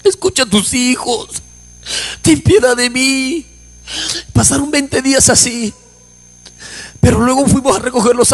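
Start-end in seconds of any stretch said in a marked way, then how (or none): 0.0-3.5 retold pleading to God, slowing at the end; imploring, drawn-out recollected prayer; tearful prayer. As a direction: beg for mercy, mildly tearful. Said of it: "me ponía a llorar y decía".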